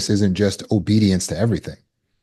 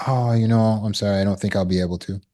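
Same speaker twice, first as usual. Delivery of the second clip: said nicely; faster than usual. Shown as a demonstration. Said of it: "I can say it nicely".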